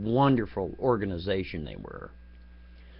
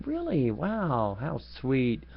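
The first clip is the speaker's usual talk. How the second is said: sarcastic; 4 dB quieter, much slower than usual. Retold or imitated. Sarcastic reply to her.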